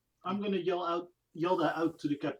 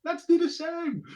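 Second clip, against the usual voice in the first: high, loud, eager call; called-out order; 10 semitones higher, 7 dB louder than usual. Acted. Silas looks at Bajiri and orders the same, high shout. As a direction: shout it across as a command. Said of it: "I'm gonna go".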